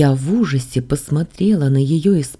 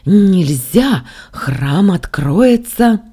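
loud, high, drawn-out cry; crazed old zealot crying out; forceful refusal; 5 semitones higher, 6 dB louder, much slower than usual. A narrator's reading. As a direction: forbid it in a raised, slow voice. Old man forbids them to leave.

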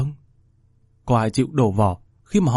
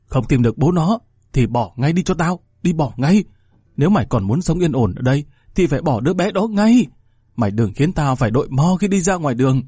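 angry mother; 3 semitones higher than usual. Acted. Mother ordering her daughter to abort, angry. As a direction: snap at the daughter to get rid of it. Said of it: "quá tức giận".

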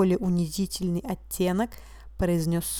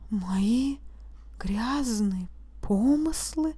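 softer, slow, sinking mumble; mumbled, crestfallen; 3 semitones higher, 4 dB quieter, much slower than usual. A narrator's reading. Accused repeating the charge, a soft dazed mumble. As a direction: let the voice drop in disbelief. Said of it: "пробормотал упавшим голосом".

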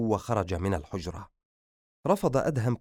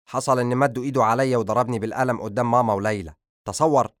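louder, fast indignant telling; 2 semitones higher, 6 dB louder than usual. Acted. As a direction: still outraged. Tells cousin of slap.

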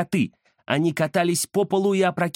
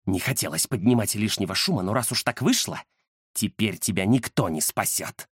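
menacing ghost; 6 semitones lower than usual. Acted. Ghost threatens Alisa, low and sinister.

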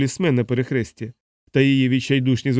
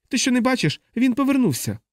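1 exasperated shout; 11 semitones higher than usual. A narrator's reading. Ward panic, shouting.

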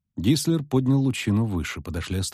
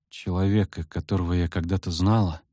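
speaking with difficulty; 5 semitones lower than usual. Acted. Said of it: "с трудом проговорила Цири".

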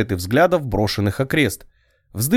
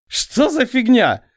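much higher, slow falsetto crack; breaking into falsetto; 11 semitones higher, slower than usual. A narrator's reading. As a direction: let the voice flip into falsetto. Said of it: "Мой голос сорвался в фальцет". (голос срывается в фальцет)

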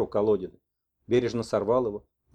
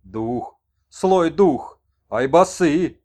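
higher, louder broken speech; shaman messenger; 3 semitones higher, 7 dB louder, much slower than usual. Acted. Shaman warns the old man of an evil spirit, loud and grave. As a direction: declare it like a grave warning.

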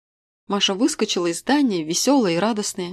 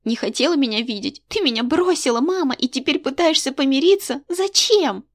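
put-on higher, louder girl's reproach rising to a cry; angry girl; 6 semitones higher, 4 dB louder than usual. A narrator's reading. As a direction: throw the accusation at her mother. Daughter accuses mother. (дочь обвиняет мать, всё выше и громче)

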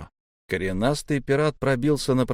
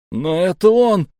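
high, indignant outburst; loud protest; 8 semitones higher, 8 dB louder than usual. A narrator's reading. Boy insisting to his comrade on the culprit, protesting. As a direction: protest over the one hushing you.

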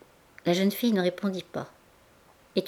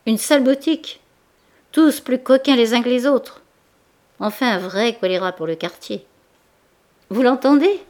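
loud, higher, furious outburst; violent shouting; 4 semitones higher, 7 dB louder than usual. A narrator's reading. Baudu rages at the table against the shop, shouting loud. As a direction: rail against the rival shop at full volume. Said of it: "il lâcha des mots violents".

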